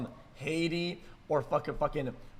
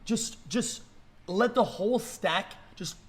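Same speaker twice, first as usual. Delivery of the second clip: rising, louder, exasperated shouting; angry rant; 7 semitones higher, 7 dB louder than usual. Real, not acted. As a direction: yell at the screen in disbelief. Streamer ranting at border video.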